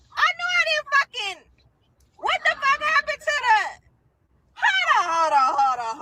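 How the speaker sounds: high, frantic cursing in a rising panic; panicked outburst. Retold or imitated. Searching her phone for the deleted address, high frantic panic.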